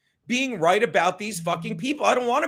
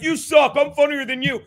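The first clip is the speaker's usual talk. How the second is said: higher, louder mock taunt of a heckler; mocking Charlie; 4 semitones higher, 4 dB louder than usual. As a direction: sneer it out like a bragging caller. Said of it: "And he's like".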